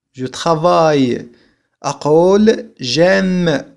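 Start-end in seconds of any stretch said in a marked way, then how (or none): none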